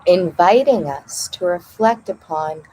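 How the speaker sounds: measured read-aloud in short phrases with pauses; meditation reading. Acted. Host reading the opening passage on rebirth to listeners, measured meditation reading.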